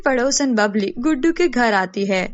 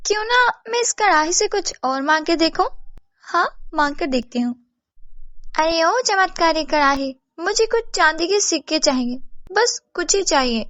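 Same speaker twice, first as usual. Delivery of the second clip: higher, eager schemer's voice; greedy, delighted neighbour; 6 semitones higher than usual. Acted. Babli demands silver from kadhai, high greedy voice. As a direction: marvel and plot with rising greed.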